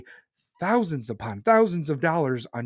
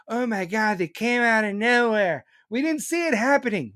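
higher, lightly put-on gasp of feigned shock; mock surprised whine; 5 semitones higher than usual. Host mocking politicians' pretend surprise, high sarcastic whine. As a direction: parody an innocent bystander's disbelief. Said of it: "This is not a fucking".

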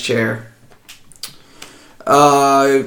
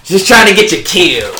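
louder, higher half-orc voice; 5 semitones higher, 3 dB louder than usual. Acted. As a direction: insist as a joking half-orc. Repeats it in the figure's voice.

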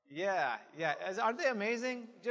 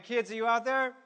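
calling from far away; 4 semitones higher, 7 dB louder than usual. Real, not acted. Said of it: "let's try that again".

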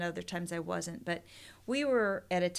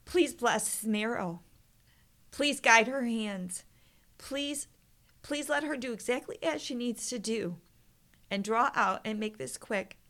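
begging prayer; 3 semitones higher, 4 dB louder than usual. Retold or imitated. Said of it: "I am begging him".

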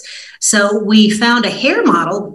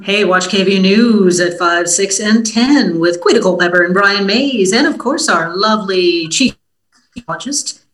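lightly put-on announcer voice. News reporter plugs her station's newscast to podcast listeners, light announcer voice. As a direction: plug it like a TV announcer, mildly. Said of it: "that was my announcer voice".

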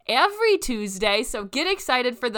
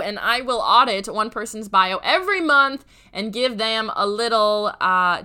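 hoarse, raspy throat; talking through a rough, sore throat; 3 semitones higher, 5 dB louder than usual. Real, not acted. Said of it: "Please forgive my raspy voice".

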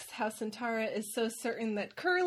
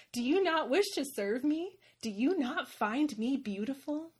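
vain dragon; 4 semitones higher than usual. Retold or imitated. Vain dragon demands admiration.

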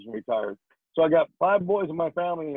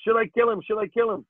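drill sergeant; 5 semitones higher than usual. Retold or imitated.

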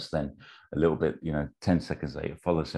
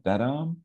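"That arm" pitched high and rising; "arm" swooping up into a question; puzzled question; 10 semitones higher than usual. Acted. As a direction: ask "That arm" as a surprised check. Acting Reagan's confused question.

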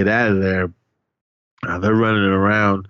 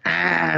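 mock attacking yell; 8 semitones higher, 3 dB quieter than usual. Retelling the dude coming back to life, mock attacking yell. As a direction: imitate a sudden lunging cry.

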